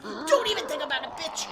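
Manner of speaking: fast, loud sassy warning; cheeky fake threat; mock threat. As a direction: snap it at them, playful. Acted reply to imagined joiner.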